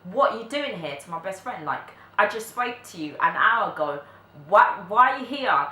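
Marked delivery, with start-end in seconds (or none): 0.0-0.9 mildly shouted, higher-pitched mum imitation; retold shouting. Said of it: "like, shouting". 2.2-5.7 higher, louder imitation of shocked mum; retold shouting. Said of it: "like, shouting".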